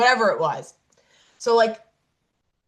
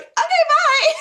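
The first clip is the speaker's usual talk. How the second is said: squeaky high, laughing okay bye; a laughing, lightly mocked cheerful goodbye; mock chipper agent; 6 dB louder, slower than usual. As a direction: play the agent bright and amused.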